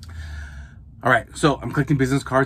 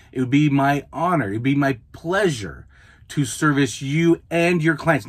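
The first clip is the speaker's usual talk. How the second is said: gracious email voice; 2 semitones higher than usual. Shown as a demonstration. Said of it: "This is how I speak in the emails".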